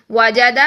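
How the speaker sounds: وجد ending on a silent دال, vowel dropped; stopped pronunciation. Shown as a demonstration. Teacher demonstrating waqf on وجد, vowel silenced. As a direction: close وجد on the bare دال. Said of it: "وجد، ایسے پڑھا تھا".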